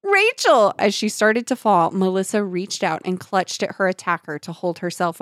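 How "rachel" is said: panicked cry. A narrator's reading.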